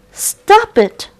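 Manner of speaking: high buzzy fly shout; buzzing fly. Acted. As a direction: buzz it out like an angry fly. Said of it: "buzzed the fly".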